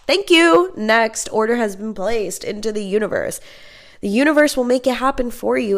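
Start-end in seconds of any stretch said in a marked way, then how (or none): 0.1-3.4 mock cashier. Universe taking her order like clerk.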